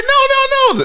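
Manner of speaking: very high, loud pleading cry; mock pleading. Recapping, the girl begs not to go, high pleading cry. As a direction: squeal no like she is begging. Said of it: "She's like".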